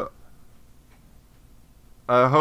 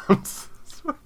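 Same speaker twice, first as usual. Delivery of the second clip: high, breathy fake sobbing; mock sob; 8 semitones higher than usual. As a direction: sob through the words, hammed-up. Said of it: "It's very emotional".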